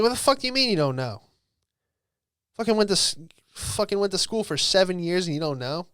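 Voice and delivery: high, loud furious yell, retold; angry outburst. Yelling at the doctor who can't say if mom lives, furious disbelief.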